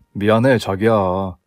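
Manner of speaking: low, slow male-role apology; apologetic fiancé. Acted. Fiancé apologises to his bride, low and contrite. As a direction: plead low and slowly.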